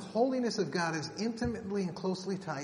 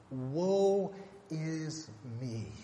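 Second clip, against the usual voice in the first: slow lament; much slower than usual. Retold or imitated. Isaiah's true response to God, slow lament. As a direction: draw it out in grief.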